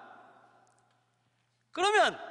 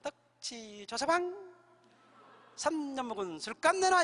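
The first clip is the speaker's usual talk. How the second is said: mock oriole call; 3 semitones higher, slower than usual. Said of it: "이렇게 울어요".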